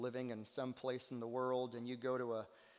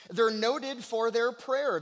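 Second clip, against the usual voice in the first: raised, emphatic sermon voice; ringing repeat to the congregation; forceful preaching; 7 semitones higher, 10 dB louder, slower than usual. Real, not acted. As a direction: preach the line out loud and high. Preacher repeats line, hushed then forceful.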